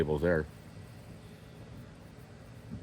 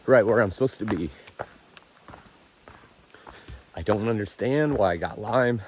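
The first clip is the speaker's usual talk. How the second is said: tearful talking; 3 semitones higher than usual. Real, not acted. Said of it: "I'm sorry that I'm blubbering as I'm talking".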